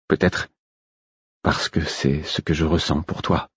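grave tone. A narrator's reading. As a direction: confess it with quiet gravity. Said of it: "dis-je d'un ton grave". (ton grave et sincère)

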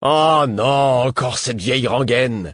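oh non, lassé et plus aigu; s'exclamer, excédé; exclamation agacée. A narrator's reading. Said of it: "s'exclama un homme". (exclamation excédée)

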